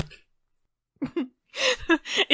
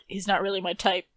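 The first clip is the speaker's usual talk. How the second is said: under-the-breath mutter; 7 dB quieter than usual. Acted. Confused player answering a companion's hints, lightly muttered. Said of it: "mutter under my breath".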